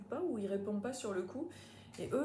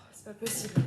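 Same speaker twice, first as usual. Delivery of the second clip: exasperated; 8 dB louder than usual. Real, not acted. Cork struggle.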